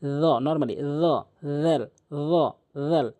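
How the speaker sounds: "র" full, "জাল" thin, tongue at teeth; long, separate "র, জাল" with lisped buzz; tongue-tip "র, জাল". Shown as a demonstration. Teacher contrasts two often confused letters, tongue-tip "র, জাল". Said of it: "জিহ্বার আগা এবং সামনে দুটি দাঁতের আগা".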